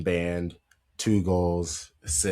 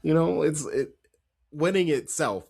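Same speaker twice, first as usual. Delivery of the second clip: a light mock Pep, pitched higher; lightly voiced coach musing about winning; imitating Pep; 8 semitones higher than usual. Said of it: "he was like".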